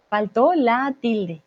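deliberate "Faltó la tilde", lightly slowed; teacher's measured first take of "Faltó la tilde"; slow model phrase. Shown as a demonstration. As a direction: say "Faltó la tilde" slowly and connected. Teacher gives phrase, then slows it.

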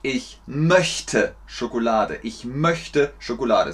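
"möchte" with a soft palatal ch; correct front ch. Shown as a demonstration. Teacher repeats the correct version for learners, soft ch in "möchte". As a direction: model "möchte" carefully with a light forward ch. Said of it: "Nummer zwei ist korrekt".

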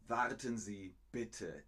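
polite, level request; friendly. Shown as a demonstration. Teacher shows the kinder way to stop someone, friendly request. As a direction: ask courteously and without force. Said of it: "Das ist freundlich".

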